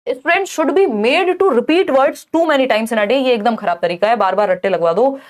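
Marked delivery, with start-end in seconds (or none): 0.1-3.2 slow, deliberate reading of the question; reading question aloud. Acted. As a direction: read it out slowly for the class. Reads answer option. (प्रश्न को धीरे-धीरे पढ़कर सुनाना)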